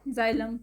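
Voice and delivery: जाइलम opening on a voiced z or j; voiced start to जाइलम, no "ks". Shown as a demonstration. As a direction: say जाइलम as "zy-lum". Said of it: "ज का".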